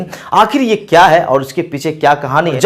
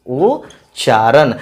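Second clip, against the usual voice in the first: slow repeat; 4 semitones lower, much slower than usual. Shown as a demonstration. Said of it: "pronunciation का मतलब क्या हुआ?".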